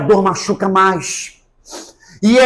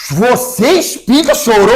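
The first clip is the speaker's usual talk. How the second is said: imitating a scandalized questioner, pitched up a touch; mock shocked question; 3 semitones higher, 3 dB louder than usual. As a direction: ask it in mock disbelief. Retruca espantado a pergunta retada. (pergunta fingindo espanto)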